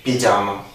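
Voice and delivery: "pyjama" said the Italian way, ending in a; Italian pigiama pronunciation. Shown as a demonstration. Showing how Italians say pyjama. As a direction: say "pyjama" as an Italian would, without the s. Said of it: "in Italy we say".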